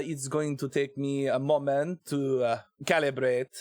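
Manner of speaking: put-on hesitant French accent, feeling for the sounds; tentative mock-French accent; terrible French accent. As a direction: calibrate a bad French accent. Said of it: "my terrible French accent".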